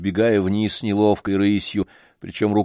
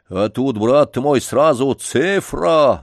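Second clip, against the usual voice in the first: getting heated; 5 semitones higher, 5 dB louder, slower than usual. Acted. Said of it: "горячился дворник".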